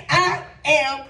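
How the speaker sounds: driving sermon cadence, phrase after phrase; impassioned preaching. Real, not acted. Preacher declaring "I am that" to congregation, impassioned.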